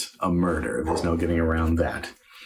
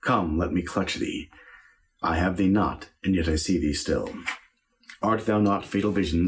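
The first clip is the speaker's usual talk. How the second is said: measured, brooding verse speaking; stage soliloquy, haunted and deliberate; dramatic Shakespeare recitation. Acted. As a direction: speak it as Macbeth seeing the dagger. Recites Macbeth dagger soliloquy.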